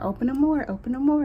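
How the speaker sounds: insistent, repeated command, lightly acted; retold urging. Retold doctors' urging during procedure.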